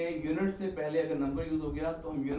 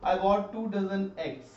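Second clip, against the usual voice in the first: slow and a little louder; slow model sentence; 4 semitones higher, 4 dB louder, much slower than usual. Shown as a demonstration. Teacher models the correct sentence, slow and louder. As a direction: model the right sentence slowly. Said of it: "two dozens नहीं आएगा".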